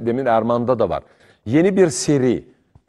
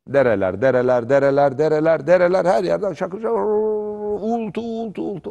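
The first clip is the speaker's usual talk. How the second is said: evoking roaring streams; 3 semitones higher than usual. Retold or imitated. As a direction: let the words swell into one long, high hum.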